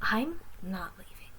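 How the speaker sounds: slow, grave whisper. Acted. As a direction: say it with grim resolve. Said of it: "I gravely said".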